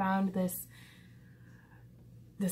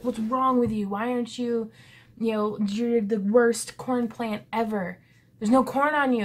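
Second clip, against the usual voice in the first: louder scolding rant; yelling gardener; 3 semitones higher, 7 dB louder than usual. Retold or imitated. Gardener yelling at his corn plant, mock scolding. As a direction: scold the plant, half joking. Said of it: "by yelling at the plant".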